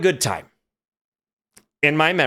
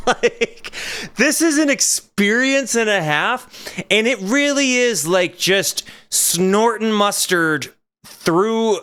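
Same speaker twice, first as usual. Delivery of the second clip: nervous laugh; 6 semitones higher, slower than usual. Real, not acted. After being pranked, laughing.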